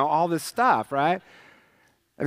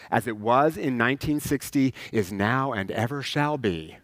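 mock liturgy; 4 semitones lower than usual. Preacher mocking churches frozen since 1960, solemn mock chant. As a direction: intone it like an old prayer. Parodies liturgy of old ways.

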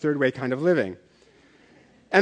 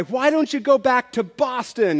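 high, slow mock jeer; mock crowd yell; 8 semitones higher than usual. Fans jeer the rude Red Sox fan, a high slow mock yell. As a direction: call it out like a retold heckle. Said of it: "folks yelled at this guy".

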